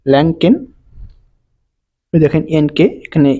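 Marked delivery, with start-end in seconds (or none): 0.1-0.5 "ল্যাংকেন" with nk sounded as ng-k; model pronunciation. Shown as a demonstration. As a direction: clearly model "ল্যাংকেন", nasal ng before k. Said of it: "ইয় ক উচ্চারণ হয়".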